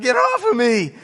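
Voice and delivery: imitating a panicked friend, high and loud; mock-terrified high shriek; cracking girly scream. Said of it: "his voice was cracking".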